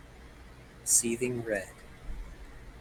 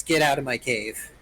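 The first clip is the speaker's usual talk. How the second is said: lightly voiced grumpy old man; hint of a cranky elder; crotchety old man; 4 dB louder than usual. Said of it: "Crotchety old man voice".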